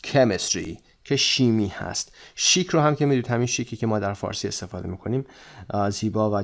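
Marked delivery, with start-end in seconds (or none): 0.0-0.8 "کمیستری" with the first syllable stressed. Shown as a demonstration. Teacher reminds students of the stress, first syllable of "کمیستری". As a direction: lean on the opening KEM of "کمیستری", falling after it. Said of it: "استرسش هم یادتون باشه که قسمت اول هست".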